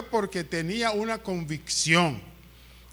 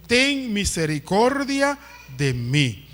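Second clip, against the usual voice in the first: slow quoted plea; slower than usual. Retold or imitated. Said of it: "qué fue lo que dijo".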